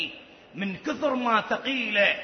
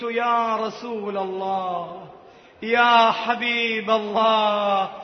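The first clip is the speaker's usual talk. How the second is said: retold calling out; much slower than usual. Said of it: "ناديت".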